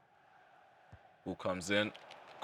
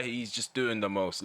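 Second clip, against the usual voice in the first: ordinary delivery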